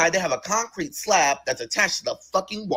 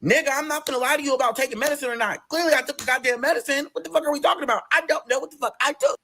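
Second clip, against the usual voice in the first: exasperated retort; 10 semitones higher than usual. Retold or imitated. Snapping back at the doctor.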